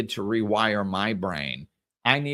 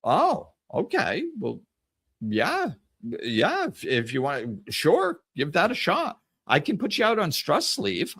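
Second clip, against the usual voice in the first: flustered doctor; 6 semitones higher than usual. Retold or imitated. Shocked doctor backpedals.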